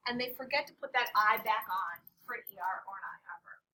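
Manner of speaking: hushed whisper to the class; teacher whisper. Shown as a demonstration. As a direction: lean in and whisper the point. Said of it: "really underline this I".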